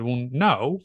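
imitated American woman, swooping on "no"; American accent. Client answering whether it would be harmful, imitated American accent. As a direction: put on a light American accent. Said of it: "You know, American".

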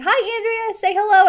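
imitating a host catching a lurker; cheery live greeting. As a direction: sing out a hello to the friend you spotted. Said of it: "she'd be like".

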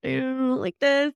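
embarrassed, with a nervous laugh; mock-flustered parent glancing around; self-conscious. Parent embarrassed in line, mildly flustered with a laugh. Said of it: "You could be self-conscious".

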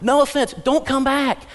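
high, loud mock pleading; exasperated nursery worker. Nursery worker warning a parent to stay away, exasperated. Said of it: "the nursery worker's saying".

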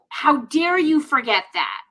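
hammed-up frustrated mom at her son; mock angry rant. Mom pretending to scold her son for forgetting, mock angry. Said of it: "I could have been like".

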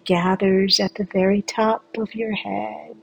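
slow, soothing meditation guide; sleep story narrator. Acted. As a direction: draw the listener into calm with long pauses.

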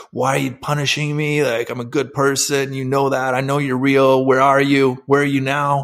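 mock yell at God, pitched high; retold screaming. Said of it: "I started screaming at God".

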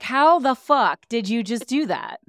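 loud, high, drawn-out amazement; hammed-up incredulous outburst, slowed for effect; astonished disbelief. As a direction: act out a flabbergasted onlooker. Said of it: "the rest of us are like".

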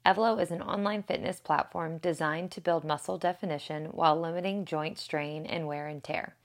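smooth, scripted podcast sponsor read. Real, not acted. Host telling listeners about the fitness sponsor, ad read. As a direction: read it briskly as promotional copy.

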